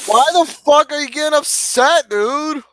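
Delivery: loud, high-pitched protest; shouting back. Real, not acted. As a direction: yell the question back at him. Friend shouts back in quarrel.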